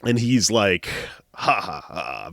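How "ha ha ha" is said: low, smug fake laugh; a macho ha ha ha, lightly done; mild mock villain laugh. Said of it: "very macho".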